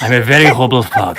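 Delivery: put-on British accent. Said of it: "I try and make it sound British".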